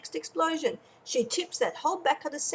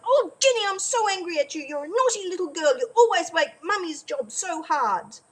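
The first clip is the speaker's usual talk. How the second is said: high, scolding mum voice, lightly played; mock angry mum scolding; 6 semitones higher than usual. Mum scolding naughty Jenny at the spill, mock cross. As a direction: tell the little girl off like a cross mum.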